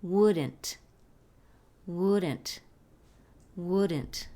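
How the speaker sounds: "wouldn't" in two syllables, "WOOD-ent", falling; pronunciation model. Shown as a demonstration. Teacher shows learners how wouldn't is pronounced, careful repeated demo. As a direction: stress the first syllable of "wouldn't", L silent. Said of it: "Se pronuncia como".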